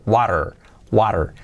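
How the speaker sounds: WATER with tapped T, "warer"; soft T, strong R. Shown as a demonstration. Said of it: "la T más suavecita". (water con T suave y R fuerte)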